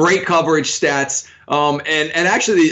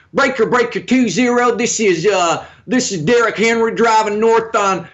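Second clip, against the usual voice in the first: trucker CB radio voice; 4 semitones higher than usual. Pretend. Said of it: "he's gonna be your trucking specialist".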